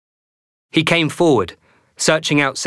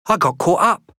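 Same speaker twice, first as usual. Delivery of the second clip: put-on higher, fretful boy voice; a stuck kid explaining himself; plump boy; 6 semitones higher than usual.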